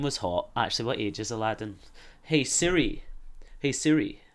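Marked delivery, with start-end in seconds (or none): 2.2-4.2 higher-pitched call to a voice assistant. Real, not acted. Calling out to a voice assistant.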